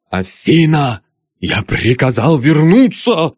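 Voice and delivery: raging father yelling; angry yell. Acted. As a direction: roar at her to come back. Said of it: "заорал славный доктор".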